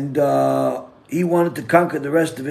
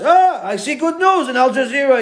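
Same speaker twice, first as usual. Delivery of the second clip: higher, pleased character voice; delighted punchline; 10 semitones higher, 4 dB louder than usual. Acted. Jewish guy explaining to his friend why he watches, delighted. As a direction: savor the punchline gleefully.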